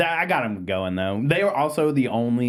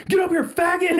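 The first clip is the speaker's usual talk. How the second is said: very high-pitched imitated heckle; mock heckling yell. Friend imitating her calling a golfer over, mock heckling yell. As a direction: yelp it out as a mocking taunt, laughing.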